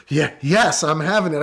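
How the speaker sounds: mock an urgent answer after a gasp; retold exasperated yes. Wife in labor answering the officer, mildly exasperated.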